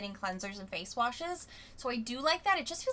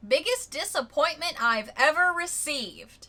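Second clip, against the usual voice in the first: loud, higher, theatrical complaint; performed disappointment; 6 semitones higher, 7 dB louder than usual. Acted. Reading out an unhappy reviewer's full paragraph, dramatically disappointed. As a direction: declare it like a hammed-up grievance. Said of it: "I'm gonna tell you her feelings".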